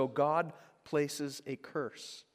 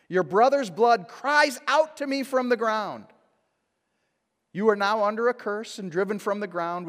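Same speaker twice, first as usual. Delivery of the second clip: higher and louder, proclaiming a curse; loud divine judgment; 4 semitones higher, 9 dB louder than usual. Acted. God pronouncing the curse over Cain, loud and grave. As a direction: thunder it out as God.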